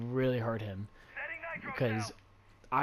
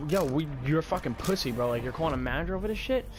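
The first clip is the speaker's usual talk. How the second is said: heated, higher confrontational voice; raised-voice replay of a row; retold screaming; 4 semitones higher, 4 dB louder than usual. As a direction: challenge him angrily, short of a scream. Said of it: "I was screaming at him".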